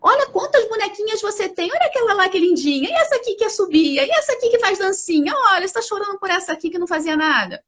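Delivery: a touch of a dismissive, sing-song mother; mother distracting. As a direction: brush the tears off like a mother cheering up a child. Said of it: "Ou ela pode dizer assim".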